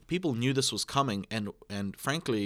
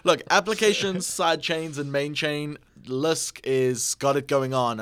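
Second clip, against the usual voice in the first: excited; 4 semitones higher, 5 dB louder, slower than usual. Acted. Hyping buzzwords excitedly.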